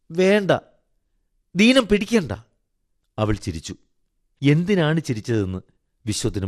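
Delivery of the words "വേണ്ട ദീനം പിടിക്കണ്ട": put-on high, insistent child's voice; high childlike refusal; protesting little boy. A narrator's reading. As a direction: plead like a small boy. Boy protests Radha must not sicken.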